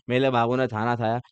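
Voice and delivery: मेरे said as मेले, खाना as थाना, lisping and cutesy; mock baby talk. Shown as a demonstration. Teacher contrasts normal speech with lovers' lisping baby talk. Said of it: "normal बोलो, normal".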